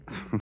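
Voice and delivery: short, soft mock laugh; dry chuckle. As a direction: give a small humourless chuckle at the tease. Dry answer to her tease.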